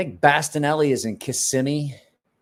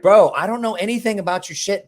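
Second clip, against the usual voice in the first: louder and higher mock complaint; retold exasperated outburst; 6 semitones higher, 7 dB louder than usual. Telling the returning knife maker off, in a raised mock-exasperated voice. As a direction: throw it at him half-annoyed, half-joking.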